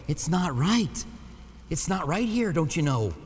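put-on playful Minnesota accent with lilting pitch. Pastor teasing congregation about the wrong passage, in a mock Minnesota accent. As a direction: put on a Minnesota twang for a joke. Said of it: "That's my Minnesota accent, by the way".

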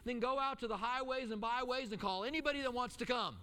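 a hint of God inviting everyone in; God calling out. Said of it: "But God was like".

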